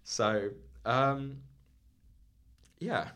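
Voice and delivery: winded, catching breath between words; talking while short of breath. Real, not acted. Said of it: "Pardon me, I'm getting out of breath".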